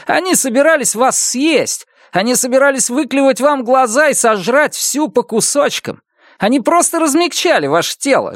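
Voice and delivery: high, mocking disbelief; scoffing. A narrator's reading. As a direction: ridicule her naive belief. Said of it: "Негодный фыркнул". (насмешливо)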